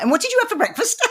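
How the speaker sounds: high, airy mock interviewer voice; lightly lampoon a clueless interviewer; mock interviewer question. Mimicking an interviewer who ignores the answer. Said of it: "then she said, uh, something like".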